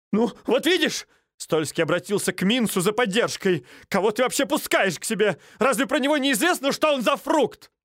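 high, aggrieved; indignant complaint. Acted. Стольский appealing to Минц, high and aggrieved. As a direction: appeal to the host, offended.

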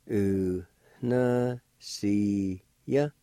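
slow teaching pronunciation; syllable by syllable. Shown as a demonstration. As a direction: separate syllables with short pauses. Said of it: "like this".

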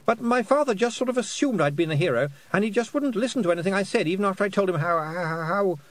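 high, breathless-sounding rush of excuses; flustered boy. A narrator's reading. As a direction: explain anxiously, stumbling at the end.

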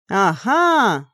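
drawn-out, triumphant aha; delighted. Acted. Girl spotting the right rune, delighted. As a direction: pounce on the discovery. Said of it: "обрадовалась я".

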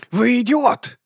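high, loud yell of rage; furious shout. A narrator's reading. Vonses furious at Vimes, high loud shout. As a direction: scream it at him.

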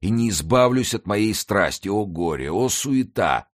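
нищий с причитанием, намного выше; горько каяться в своей страсти; сетующий нищий. A narrator's reading. Beggar laments his avarice. (нищий сокрушается о своей скупости)

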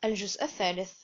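breathy whisper for the chapter title; hushed announcement of a new chapter; whispered heading. Acted. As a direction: whisper the part number like a secret.

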